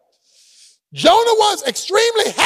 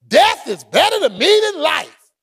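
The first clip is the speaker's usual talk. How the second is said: mock despair; 3 semitones higher than usual. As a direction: wail it like a drama queen. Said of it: "And here you go again".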